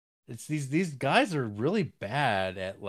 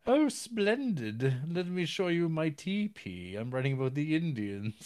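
eccentric writer; 5 semitones higher than usual. Retold or imitated. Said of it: "And he's like".

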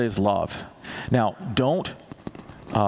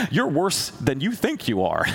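God, amused; 3 semitones higher than usual. Retold or imitated.

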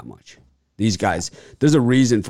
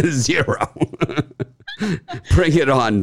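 taunting through laughter; laughing taunt; 6 semitones higher than usual. Real, not acted. Daring the trolls to come at him, laughing. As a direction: laugh while daring them.

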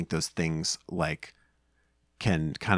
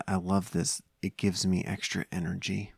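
softly voiced child's confession; hushed, softer retelling; retold whisper; 6 dB quieter than usual. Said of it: "he whispered".

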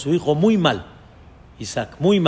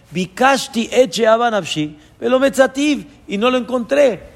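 impassioned plea; 6 semitones higher than usual. Acted. Am Israel pleading to God.

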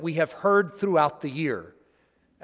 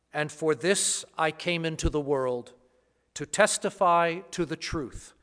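Gospel reading. Acted. Gospel proclamation at Mass.

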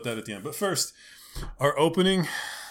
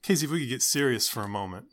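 upbeat youth pastor. Acted. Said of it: "the random youth pastor voice".

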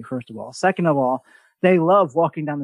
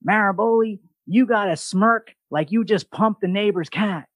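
tech sergeant; 4 semitones higher than usual. Retold or imitated. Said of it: "He said".

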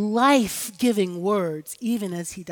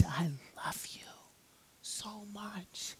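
unvoiced whisper of love; whispered cadence; 18 dB quieter, slower than usual. Mother whispering love to her daughter. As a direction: breathe it out as a secret. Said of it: "how many different cadences".

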